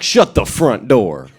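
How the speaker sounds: loud, drawn-out near-curse; hammed-up shocked outburst; mock exclamation. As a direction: belt it out slowly as a pretend swear.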